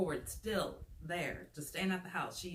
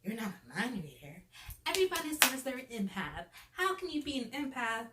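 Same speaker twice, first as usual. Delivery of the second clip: mocking her; 3 semitones higher than usual. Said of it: "she's just like".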